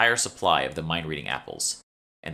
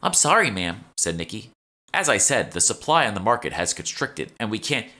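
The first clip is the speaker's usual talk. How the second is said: a touch higher, chatty shop clerk; lightly voiced shopkeeper; 4 semitones higher, 4 dB louder than usual. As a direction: play the eager young shopkeeper, slightly raised. Nikki apologizes to Emma.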